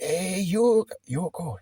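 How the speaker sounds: high, eager call across the street; excited shout of "Yoko"; calling out excitedly. Retold or imitated. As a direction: call her name to catch her attention. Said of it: "And I went".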